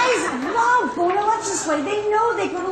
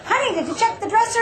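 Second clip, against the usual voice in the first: light, higher, quick helpful question; non-judgmental tone; 6 semitones higher, faster than usual. Shown as a demonstration. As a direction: ask it kindly, with no blame at all. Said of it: "non-judgmental".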